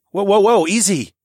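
loud, high cautioning call; urgent "easy there"; alarmed. A narrator's reading. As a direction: blurt it out to steady someone falling. Catches her as she falls.

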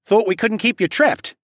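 high, loud taunt. A narrator's reading. Dragon mocks the assassin locked in his cell, taunting. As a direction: gloat over a caged prisoner.

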